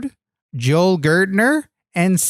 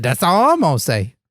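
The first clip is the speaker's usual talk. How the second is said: put-on New Orleans accent; 3 semitones lower than usual. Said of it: "speaking in a New Orleans accent?".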